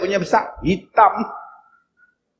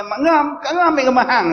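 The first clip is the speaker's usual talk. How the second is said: teasing quote; 6 semitones higher, much faster than usual. Retold or imitated.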